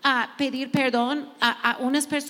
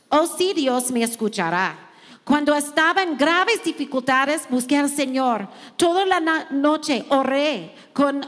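scripture reading; 4 dB louder than usual. Acted. Preacher reading a psalm to the women, fervent and loud. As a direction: proclaim each line of the psalm to the room.

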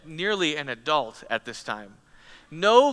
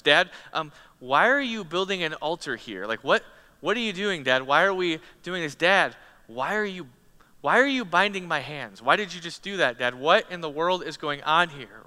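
anxious son; 3 semitones higher, 3 dB louder than usual. Acted. Preacher voices frightened Isaac.

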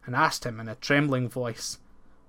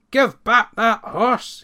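loud, higher, slow demand; cried out; 8 semitones higher, 8 dB louder, slower than usual. A narrator's reading. Ploughman crying out at beast, slow loud demand. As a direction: call out a fierce demand. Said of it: "he cried".

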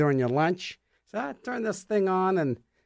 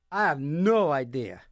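ordinary talk, nothing marked

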